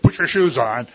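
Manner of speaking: loud, blunt parent order; just tell the kid flatly; firm command. Retold or imitated. Old-school parent ordering the child, loud and firm. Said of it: "instead of".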